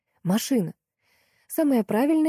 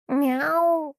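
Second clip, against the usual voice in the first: a much higher cat's meow; answering meow; 9 semitones higher than usual. A narrator's reading. The cat answers the howl, high meow. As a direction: meow back sharply. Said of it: "раздалось в ответ".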